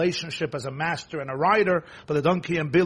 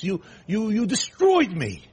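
much higher and louder, indignant; furious self-righteous rider; outraged accusation; 12 semitones higher, 4 dB louder than usual. Acted. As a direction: hurl the blame back. Bilam's self-righteous rant at donkey.

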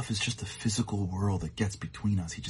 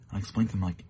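ordinary delivery

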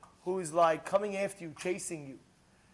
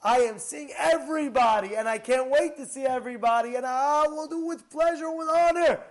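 glad welcome; 2 semitones higher, 5 dB louder than usual. Retold or imitated. Correct eager response to collectors.

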